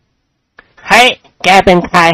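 very slow, drawn-out challenge; startled challenge. A narrator's reading. Teacher confronting the student who slapped him, slow challenge. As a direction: spin round and demand who he is.

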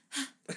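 high, sudden exhale; fake out-of-breath puff. Host plays the director asking for breath, demonstrative puff. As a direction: pretend to be winded, badly faked. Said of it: "it's like, out of breath".

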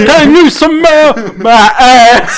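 laughing catchphrase. Pretend. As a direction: drag it out through laughter. Imitating The Rock, laughing.

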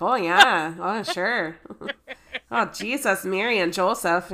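light Minnesota accent, drawn vowels; a touch of folksy Minnesota. Shown as a demonstration. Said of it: "a Minnesota accent".

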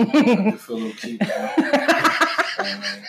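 high, laughing, playful. Real, not acted. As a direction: giggle through it, feeling cute. Joking about feeling cute.

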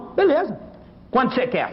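put-on high, cocky young rooster voice; young rooster accepting the race, high and cocky. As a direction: toss it off like a brash young cock. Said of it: "O galinho novo falou".

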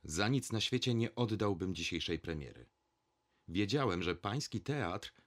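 ordinary delivery, nothing marked

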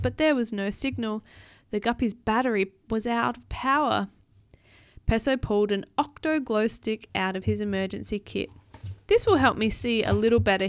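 put-on animated read-aloud for a child; storybook narration; story narration. A narrator's reading.

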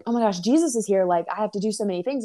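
rushed, mildly frantic retelling; stressed out. Retold or imitated. Martha frets over preparing food for Jesus, stressed out. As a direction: imitate someone freaking out, words hurrying along. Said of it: "she got so stressed out".

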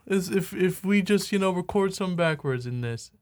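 high put-on voice easing down; John. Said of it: "John was like".

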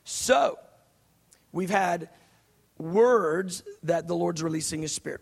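deliberate, with long pauses between phrases; slow it down, pausing after the opening words. Real, not acted. Preacher reining himself in after talking too fast, slowed down. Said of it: "I'll slow it down".

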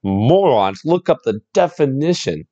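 slow, drawn-out mimicry without real volume; half-hearted mock yell, slow and deliberate; mock yelling kid. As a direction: imitate a kid's rant, stretching the words. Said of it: "proceeds to yell at us".

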